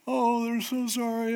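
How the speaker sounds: high, sing-song fake sorry; mock apology. Preacher mocks people who always say sorry, in a high sing-song fake apology. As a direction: parody a serial apologizer's gushing regret. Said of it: "over and over again are just".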